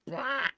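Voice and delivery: high squawk; imitated program sound. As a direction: mimic a sharp "wah" alert. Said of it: "It goes".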